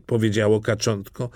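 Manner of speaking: usual speaking voice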